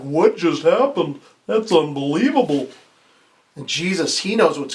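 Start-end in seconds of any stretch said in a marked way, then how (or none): 0.0-2.7 low, hushed, astonished; a touch of stunned disbelief. Acted. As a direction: gape in amazement. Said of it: "mouths open like".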